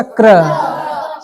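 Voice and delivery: "क्र" drawn out slowly, K leading into R; K before R. Shown as a demonstration. Teacher sums up the blend for class, slow "क्र" with K first. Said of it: "तो इसको क और फिर इसको रो".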